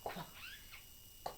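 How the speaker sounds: qu said twice as a short kw sound; phonics sound. Shown as a demonstration. Teacher modelling the qu sound for students, short. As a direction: give the qu sound twice, briefly. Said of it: "Number nine".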